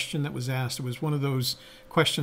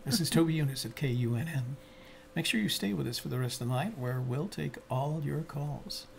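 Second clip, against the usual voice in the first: late night DJ; 6 dB quieter than usual. Pretend. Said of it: "Do the late night thing".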